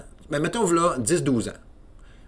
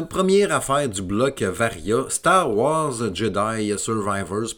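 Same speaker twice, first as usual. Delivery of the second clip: announcer; 4 dB louder, much slower than usual. Pretend. Announcing the first topic.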